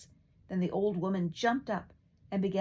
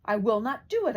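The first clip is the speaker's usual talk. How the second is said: loud, higher stubborn bawl; bawling louder than ever; 5 semitones higher, 8 dB louder than usual. A narrator's reading. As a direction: bellow the refusal at the king. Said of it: "he only bawled out louder than ever".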